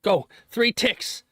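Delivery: high-pitched, urgent excitement; excited cheering. Real, not acted. Streamer watching the ticks climb, in real rising excitement.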